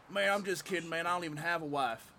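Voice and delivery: lightly imitated Alabama comic; Alabama accent. Comic backing off his wife joke, light Alabama accent. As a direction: put a touch of Alabama on it. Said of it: "sounded like he was from fucking Alabama".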